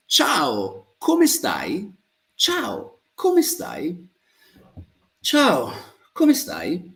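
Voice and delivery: "Ciao" starts high and falls, "come stai" rises; vary the tune of "Ciao, come stai" slightly each time; varied intonation. Shown as a demonstration. Teacher shows intonation changing with mood, varied greeting tune. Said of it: "change the intonation slightly".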